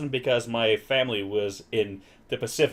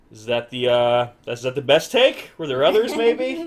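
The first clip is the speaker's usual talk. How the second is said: rising, doubtful questioning; skeptical; 4 dB louder than usual. Retold or imitated. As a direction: wonder if it's really the best. Imagined doubtful viewer.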